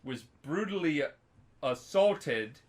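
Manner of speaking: BRUTALLY and ASSAULTED set apart by pauses; emphatic. Real, not acted. Telling a friend of a grave crime, emphatic. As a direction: weigh out "brutally assaulted" word by word. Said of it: "I'm emphasizing this".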